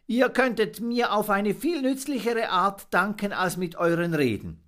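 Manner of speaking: a small monkey asking earnestly; little monkey. Acted. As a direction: Fips asking the birds for real help. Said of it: "sagte er".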